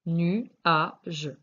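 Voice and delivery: nu, a, je split into separate syllables; teacher sounding out syllables. Shown as a demonstration. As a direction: spell out nu a je slowly with pauses. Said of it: "bien distinguer les différentes syllabes".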